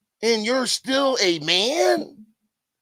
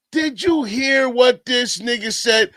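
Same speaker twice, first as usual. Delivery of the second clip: ordinary delivery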